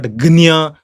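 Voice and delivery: Gnya with g into ny; Gnya, g-n-y cluster; rejected pronunciation. Shown as a demonstration. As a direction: stress Gnya, nasal after the g.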